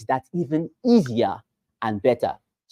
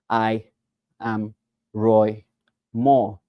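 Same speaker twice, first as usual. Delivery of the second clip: one word at a time, long pauses; writing-speed talk; much slower than usual. Shown as a demonstration. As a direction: speak as slowly as you would write it out. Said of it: "talk at your writing speed".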